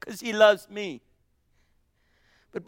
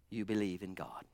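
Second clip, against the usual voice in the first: "you believe in God" dropped far lower and much softer; sudden hush; 13 semitones lower, 14 dB quieter than usual. Shown as a demonstration. Preacher lowering his voice to the congregation, hushed. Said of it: "by Jesus".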